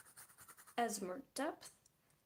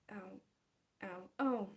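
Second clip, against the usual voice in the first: hissing in pain; 3 semitones lower than usual. Real, not acted. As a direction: wince through the ows. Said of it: "now it's hurting".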